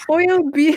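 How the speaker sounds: "I'll" said slowly as "oil"; halting try at saying "oil"; attempted accent. Shown as a demonstration. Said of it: "I can't do it".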